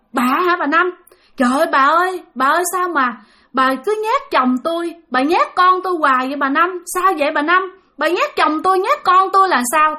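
distressed questioning. Acted. Grandmother confronts the ghost.

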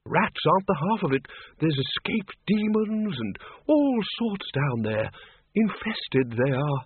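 high, slow, drawn-out character voice; talking it up. A narrator's reading. Windle talks up the cellars.

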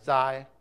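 Zai said loud on its own; stressed syllable alone. Shown as a demonstration. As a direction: punch the single syllable Zai. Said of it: "you put the accent on".

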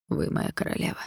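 soft, unsure whispering spirit; hesitant mirror whisper. A narrator's reading. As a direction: answer the queen uncertainly, barely voiced. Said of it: "Я слышу неуверенность в твоём голосе".

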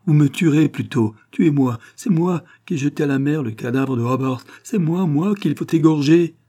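shout, offering himself instead; desperate shout. A narrator's reading. André begging the sailors to kill him instead, desperate shouting. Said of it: "crie-t-il avec un rugissement".

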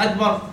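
"أكبر" said as "agbar"; kaf turned gim. Shown as a demonstration. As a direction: voice the ك of "أكبر" into a hard g. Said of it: "ممكن ننطقها جيم؟".

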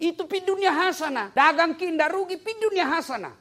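high, loud preaching cry; full-force preaching. Acted. Preacher lifting the crowd with a loud, high cry.

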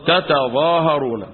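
slow تتظاهرون with both ta syllables sounded; unmerged double ta. Shown as a demonstration. Teacher giving students the original form, تتظاهرون with two clear ta syllables. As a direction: spell out ta-ta-ZAA-ha-roo-na in تتظاهرون. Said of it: "وتظاهرون أصلها إيه؟".

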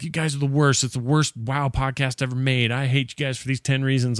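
lightly acted hate mail; retold hate review. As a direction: imitate a hateful reviewer reading off complaints. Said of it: "was totally, like, hate".

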